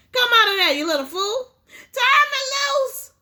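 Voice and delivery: high, loud tearful yelling; boy and father yelling in the struggle; crying shout. Acted. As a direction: shout through tears while struggling. Tug of war, shouting.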